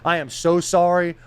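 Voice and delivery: emphatic mock apology; retold pleading apology. Apologizing to the air, retold pleading. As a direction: plead with whoever is out there, playing it up for the story. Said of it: "I start apologizing to the air".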